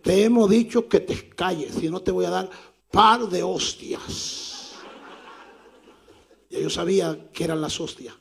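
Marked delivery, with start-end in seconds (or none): 0.0-4.8 threatening big man. Retold or imitated.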